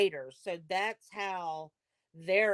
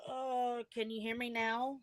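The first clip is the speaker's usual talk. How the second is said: faint, far from the mic; phone held away; 5 semitones higher, 4 dB quieter than usual. Real, not acted. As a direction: voice too low on the call. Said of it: "it's talking real low again".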